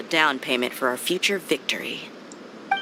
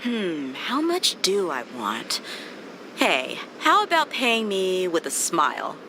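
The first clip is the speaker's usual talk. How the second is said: playful musing; 2 semitones higher, 3 dB quieter, slower than usual. Acted. Teasing, musing about payment.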